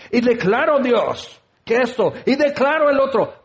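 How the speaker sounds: insistent, hammed-up proclamation; imitated shouted prayer. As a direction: parody a demanding prayer. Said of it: "ya le estás gritando".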